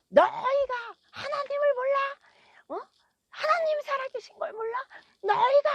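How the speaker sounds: high, full-force indignant yell; imitated shouting. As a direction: shout a drunken man's furious rebuke, retold at full pitch. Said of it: "막 소리를 지르는 거예요".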